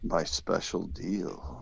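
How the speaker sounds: sarcastic. Real, not acted. Mocking repeat of phrase.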